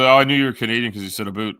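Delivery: imitating other people. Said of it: "that's what people always say".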